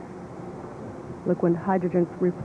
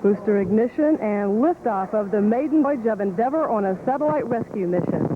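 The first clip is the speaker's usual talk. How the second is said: excited liftoff call; 3 semitones higher than usual. Real, not acted.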